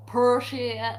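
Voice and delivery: put-on practising a friend's accent; imitated accent of a friend; Mel's accent. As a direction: try your friend's way of saying "Appreciate". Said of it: "I can't do Mel's accent".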